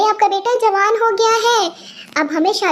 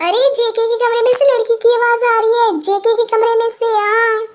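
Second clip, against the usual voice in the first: put-on wife excitedly telling her husband about a girl's voice; excited alarm; 3 semitones higher than usual. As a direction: burst in with scandalous news. Mother bursts in with news.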